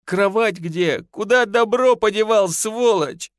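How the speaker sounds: tearful rage. A narrator's reading. Wife to husband over the lost goods, tearful anger. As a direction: spit out the insult through tears. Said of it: "В голос зарыдала Танька".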